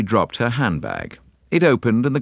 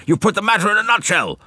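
put-on high, fast, delighted old man; chuckling old gentleman; 12 semitones higher, 4 dB louder, faster than usual. A narrator's reading. Old gentleman delighted by Poirot's remark, high chuckling. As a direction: say it quickly through a chuckle. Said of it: "chuckled the old gentleman".

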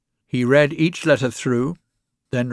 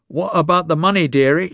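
high, loud wheezy crone; old woman wheezing for her money; wheezing greed; 6 semitones higher, 5 dB louder than usual. A narrator's reading. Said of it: "she wheezed".

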